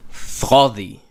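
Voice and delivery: Sodi with the tongue behind the teeth, a lisped th-like start; Hebrew sodi. Shown as a demonstration. Teacher demonstrating Sodi to learners, tongue at back of teeth. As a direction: sound out Sodi slowly for the class. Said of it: "keep your tongue more at the back of the teeth".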